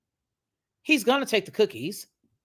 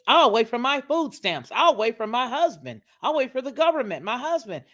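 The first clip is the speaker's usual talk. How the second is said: mocking her; 5 semitones higher, 3 dB louder than usual. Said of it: "She took it".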